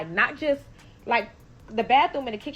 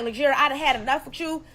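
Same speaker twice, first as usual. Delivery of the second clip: higher, louder pleading; begging; 5 semitones higher, 4 dB louder than usual. Retold or imitated. To the roommate behind the locked door, louder pleading. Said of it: "So I'm begging her".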